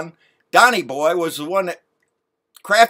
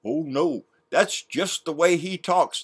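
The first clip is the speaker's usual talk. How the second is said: mocking Junior; 4 dB quieter than usual. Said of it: "That's what Junior said".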